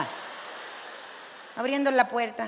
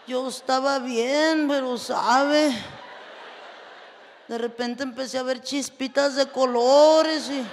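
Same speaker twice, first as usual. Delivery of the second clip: slow, a hint of a weak whiny man; lightly voiced limp complaining husband; feeble husband; slower than usual. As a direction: drag the words like a man too weak to talk. Fainted husband complains he's weak.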